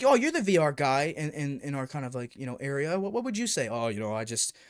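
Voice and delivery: a light put-on accent, mocking the guy; lightly voiced mock accent for the clueless YouTuber. Mocking a YouTuber asked about VR, light put-on accent. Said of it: "I'm adding the accent 'cause I think it's more fun".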